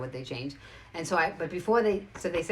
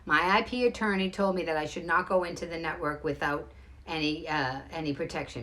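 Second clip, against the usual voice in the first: measured, deliberately calm; reining herself in to stay composed; controlled and even; calmly. Real, not acted. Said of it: "I'm gonna say this as calmly as possible".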